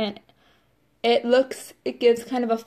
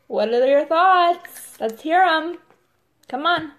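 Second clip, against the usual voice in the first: higher, louder playful dare; eager invitation; 5 semitones higher, 4 dB louder, slower than usual. Real, not acted. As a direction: egg them on, bring it. Inviting viewers' opinions eagerly.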